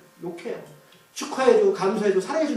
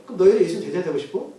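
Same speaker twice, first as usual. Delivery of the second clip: lightly needling question; sarcastic; 3 semitones lower, faster than usual. Acted. Blind man teasing Pharisees about becoming disciples, mildly sarcastic. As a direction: ask it as a sly dig. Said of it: "이 사람 비꼬는 얘기 하는 거예요".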